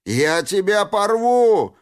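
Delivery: высоко, громко, медленно; играет ярость; яростный крик. A narrator's reading. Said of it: "закричал он". (яростный крик Рябого)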